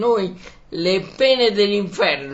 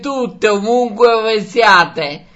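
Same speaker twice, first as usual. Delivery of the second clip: Nunzio Filogamo; 3 semitones higher, 5 dB louder than usual. Retold or imitated. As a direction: welcome the far-off audience like a vintage presenter. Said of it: "Come diceva il buon Nunzio Filogamo".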